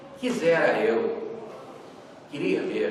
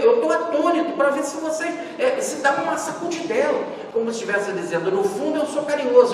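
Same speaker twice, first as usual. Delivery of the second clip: pregação exaltada; 9 semitones higher than usual. Real, not acted.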